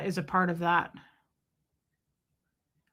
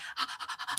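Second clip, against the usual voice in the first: mock gasp; 14 dB quieter than usual. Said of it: "I start hyperventilating".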